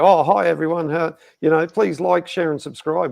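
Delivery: chirpy high greeting; mock overeager youtuber; mock youtuber intro. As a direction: overeager host asking for subscribes. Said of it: "you shouldn't get on there and just go".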